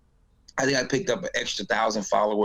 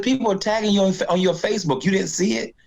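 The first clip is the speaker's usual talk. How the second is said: friend urging; 9 semitones higher than usual. Retold or imitated. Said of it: "He said".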